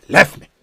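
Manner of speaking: "leftme" punched out; Jamaican "left me". Shown as a demonstration. Teacher giving the Patois version, Jamaican Patois. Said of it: "you have to say it with".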